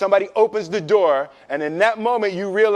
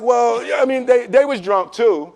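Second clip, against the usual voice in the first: hopeful excuse; 4 semitones higher than usual. Retold or imitated. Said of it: "You're like".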